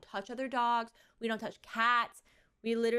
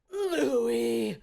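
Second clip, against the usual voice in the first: sharp scolding cry of name; 3 semitones higher, 8 dB louder than usual. Retold or imitated. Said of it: "I don't talk to my kid like that".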